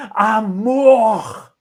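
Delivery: "Amor" loud with a falling tune; passionate intonation. Shown as a demonstration. Teacher showing a loud, proclaimed "Amor". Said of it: "A mesma palavra você deu várias entonações".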